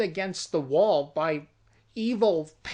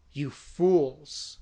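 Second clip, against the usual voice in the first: stern priest; 4 semitones lower than usual. Retold or imitated. Priest rebukes them.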